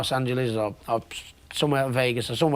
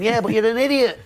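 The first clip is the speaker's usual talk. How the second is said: higher, louder mocking jab; mocking put-down; 8 semitones higher, 3 dB louder than usual. To Floyd at the press conference, mocking jab. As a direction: needle him with a grin. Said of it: "but I was going".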